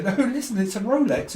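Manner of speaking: lightly hammed wide-boy pitch; dodgy watch seller. Fake watch seller voiced.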